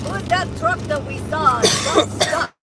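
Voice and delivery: light mock Russian accent; broken English, lightly Russian. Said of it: "You have a terrible Russian accent".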